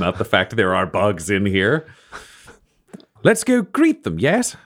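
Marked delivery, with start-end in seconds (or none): 3.2-4.6 courtly steward. Acted. Steward invites his lord.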